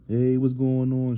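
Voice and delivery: mock Natalie greeting. Imitating Natalie greeting fans on her live, mock sweet. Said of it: "Natalie on some".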